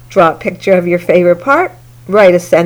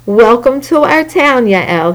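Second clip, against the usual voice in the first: exclaimed; 3 semitones higher than usual. Acted. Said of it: "he exclaimed".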